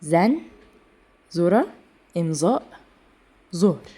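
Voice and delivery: ذرة، إمضاء، ظهر each with a plain z; one word at a time, ذال, ضاد and ظاء all turned to z. Shown as a demonstration. Teacher drilling examples, ذرة، إمضاء، ظهر with Persian z. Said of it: "بينطقوا زين".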